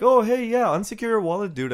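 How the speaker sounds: chummy con-man pitch; host mocking a crypto scammer, bro-ish.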